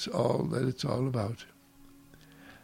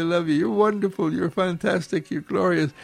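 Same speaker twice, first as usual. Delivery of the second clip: gushing joy; 3 semitones higher than usual. Pretend. Parent gushing love at their family, excited. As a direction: pour out delight to the family, higher up.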